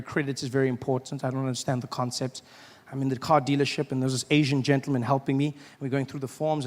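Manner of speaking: usual speaking voice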